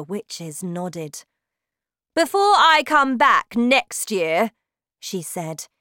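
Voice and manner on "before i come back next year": shouting witch. Acted. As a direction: bellow like a terrifying witch queen. Witch gives orders.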